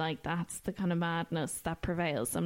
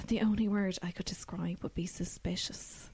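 whispered, much softer; hushed whisper; 5 dB quieter than usual. Retold or imitated. Secretary describing the suspicious man, whispered. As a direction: hush it like a secret.

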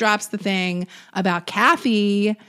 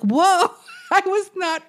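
shocked apologizer; 7 semitones higher than usual. Retold or imitated. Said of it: "And they're like".

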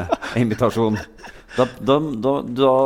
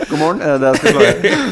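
laughing mimic; 3 semitones higher, 4 dB louder than usual. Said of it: "Sier du kjempe".

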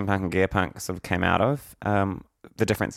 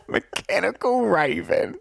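laughing; 9 semitones higher, slower than usual. Real, not acted. Laughing repeat, high and slow.

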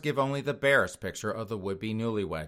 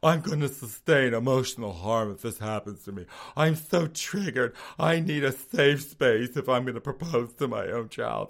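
mocking whiny millennial. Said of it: "That is their cause du jour every day".

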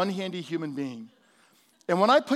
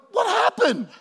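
high, loud, startled question; surprised; 14 semitones higher, 7 dB louder than usual. Retold or imitated. Pastor replays his own surprise at his wife, high startled voice. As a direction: ask in mock astonishment, pitched way up. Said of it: "I'm like".

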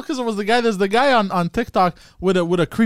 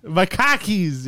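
slow Boston "cockies" for khakis; drawn-out amateur Boston accent; much slower than usual. Acted. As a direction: drag out cockies, Boston style. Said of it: "Do, do the Boston accent".

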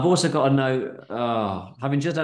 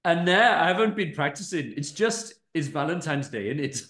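put-on Indian accent; 3 semitones higher than usual. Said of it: "he's going Indian".

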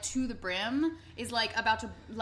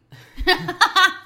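loud laugh; 8 semitones higher, 14 dB louder than usual. Real, not acted.

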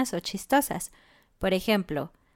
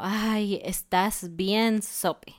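gentle teasing; much slower than usual. Shown as a demonstration. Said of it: "Es como".

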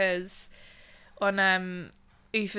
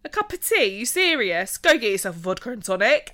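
imitated grandma; 5 dB louder than usual. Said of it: "And she's like".

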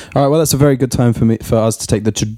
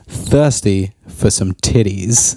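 sultry movie title; 4 semitones lower, much slower than usual. Pretend. Reading porn title in sexy voice.

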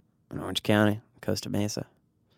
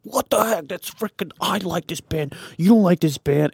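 mock gatekeeping fan; 7 semitones higher than usual.

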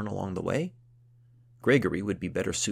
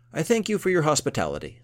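gruff count voice; 9 semitones higher, 9 dB louder than usual. Acted.

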